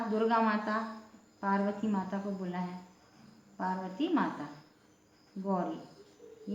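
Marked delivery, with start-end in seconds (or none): 5.4-6.6 गौरी drawn out slowly with a wide au; long au. Shown as a demonstration. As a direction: stretch गौरी, open au sound. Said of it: "ये गौरी माता का नाम है". (गौरी में लंबा औ)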